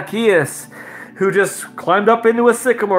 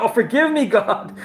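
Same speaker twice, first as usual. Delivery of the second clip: retold pleading; 5 semitones higher than usual. Acts own horrified plea to God.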